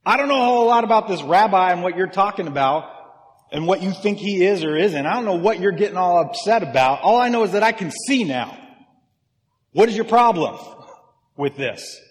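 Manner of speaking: worked-up blind man standing his ground; exasperated retort. Acted. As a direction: argue back, voice rising to the final challenge. Healed man argues back at accusers.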